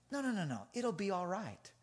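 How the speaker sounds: soft, soothing retold reassurance; calm a worried kid gently; reassuring.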